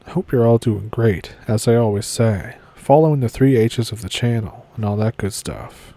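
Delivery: talking with a stiff jaw; sore jaw. Real, not acted. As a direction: mumble through a barely open mouth. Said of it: "I can't open my mouth all the way".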